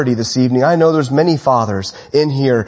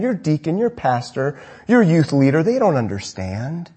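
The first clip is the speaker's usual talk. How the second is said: mock sympathy. False teachers flattering a listener's itching ears, mock-sympathetic. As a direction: imitate a soothing flatterer, drawing phrases out.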